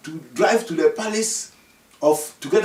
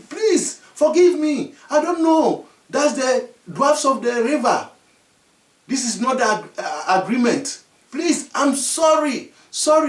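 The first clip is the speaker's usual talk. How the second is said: pleading apology; 4 semitones higher than usual. Acted. Chief kneels, shocked, begging.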